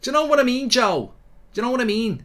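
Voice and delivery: put-on high, loud Scouse accent, pushed hard; Scouse impression. Mimicking a Scouser talking to Joe, loud Scouse accent. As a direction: ham up a Liverpool accent, well above his own pitch. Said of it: "that's sort of how I do my Scouser".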